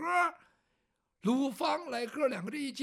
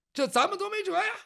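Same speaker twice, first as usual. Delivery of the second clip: higher, louder, fast helpless cry; exasperated; 10 semitones higher, 7 dB louder, faster than usual. Acted. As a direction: throw up your hands in dismay. Character helplessly exclaiming.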